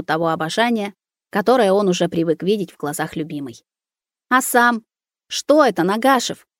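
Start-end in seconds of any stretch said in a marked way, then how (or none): 4.3-6.5 tearful. Acted. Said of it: "всхлипнула Маруся".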